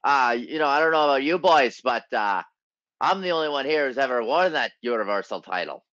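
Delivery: lightly attempted Irish accent; a hint of a bad Irish accent. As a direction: quote him in a rough Irish lilt. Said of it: "That's my best Irish accent".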